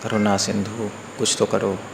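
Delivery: low, soft mock plea to God; imitated plea. Suffering man turning to Krishna for help, soft imitated plea. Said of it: "फिर उसको याद आएगी भगवान की".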